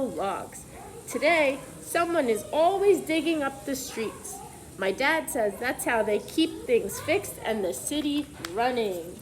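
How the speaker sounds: clear, lively picture-book reading voice; reading to children. Acted. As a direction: read the letter aloud to the class.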